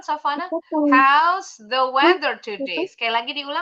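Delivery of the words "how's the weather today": a louder repeat, "weather" stressed, rising on "today"; louder model line. Shown as a demonstration. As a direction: say it up so the shy pupil can hear. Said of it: "Suaranya nggak kedengeran".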